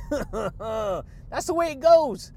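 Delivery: laughing shout. Real, not acted. Laughing shout to listeners about faith and healing.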